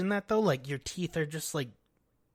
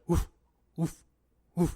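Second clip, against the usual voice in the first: soft woofs; 3 semitones higher, 4 dB louder than usual. Retold or imitated. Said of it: "he'll be like".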